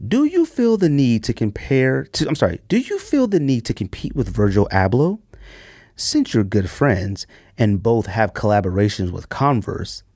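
formal announcer-style reading of the question; professional read voice. Shown as a demonstration. Podcast host reading a listener question in a formal voice. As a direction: read it out like a polished news anchor. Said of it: "in my professional read voice".

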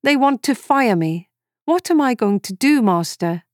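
put-on a child's half-crying question; tearful plea. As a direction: plead to Master through welling tears.

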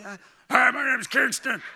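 loud, gruff sailor-voiced child; hammed-up gravelly cartoon growl from a little kid; Kingston as Popeye. Little boy introducing himself to throat specialist, gruff cartoon growl. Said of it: "talking like Popeye the Sailor Man".

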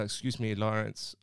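attempted South American accent; rough imitation of a South American accent. Club guest politely approaching the worker, in a shaky South American accent. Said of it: "he had a bit of an accent. I'll try and replicate it".

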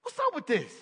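a whiny complaint, voice rising on the question; grumbling complaint. Retold or imitated. Hungry Israelites griping to God, whiny. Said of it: "And they're like".

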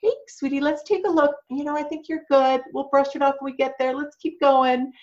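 calm reassurance. Retold or imitated. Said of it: "as calmly as you possibly can".

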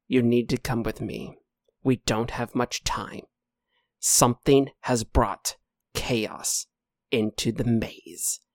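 lightly played ominous creature; grave knight. Game master voices the knight.

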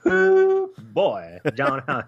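a high, loud strained cowboy holler; hammed-up cowboy voice. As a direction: throw out a big cowboy "Ooh, boy" way up high. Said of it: "I'm not gonna do that voice".

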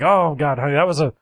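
a dad in a panic saying sorry; flustered dad apology. Retold or imitated. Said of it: "he's like".

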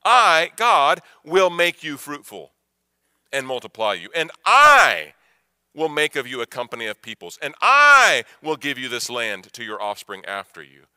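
preacher booming God's promise; proclaiming. Retold or imitated. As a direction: declare it as God's own vow. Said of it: "this is reflecting on what God had said".

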